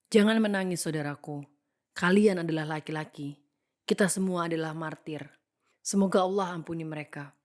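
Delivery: mildly firm retelling of a father's words; lightly voiced firm father urging grieving men; firm exhortation. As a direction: read the quote with steady, understated resolve. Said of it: "dengan tegas berkata".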